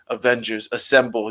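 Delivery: lightly voiced gravelly Captain America; a hint of a low, gravelly hero. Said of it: "nice low gravelly voice".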